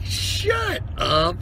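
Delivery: high-pitched retold disbelief; incredulous retort. Telling a buddy he can't believe the spear tip, incredulous. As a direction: react like you can't believe your buddy.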